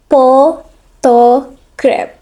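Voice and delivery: "photograph" very slowly, syllable by syllable; vowel change demo. Shown as a demonstration. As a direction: spell out "photograph" in slow separate syllables. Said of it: "Note how the a sounds can".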